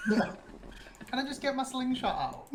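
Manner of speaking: high, slow, giggly question; amused, laughing plea; laughing request. Real, not acted. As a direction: ask through real laughter. Player laughs while asking.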